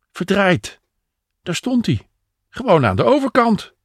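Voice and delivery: high-pitched exclamation of surprise; surprised discovery. A narrator's reading. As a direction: exclaim as you suddenly spot it. Henk suddenly spots his car.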